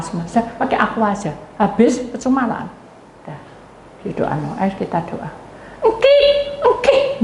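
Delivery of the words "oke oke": two high, thin imitated wheezes; wheezing. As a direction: squeak like a wheezy gasp for air. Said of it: "buang kik-kiknya". (tiruan bunyi mengi, ngik-ngik)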